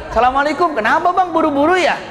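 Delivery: high-pitched, patient friendly greeting; smiling politeness. Acted. Crash victim gently asking the hurried driver, smiling politeness. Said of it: "Sambil senyum".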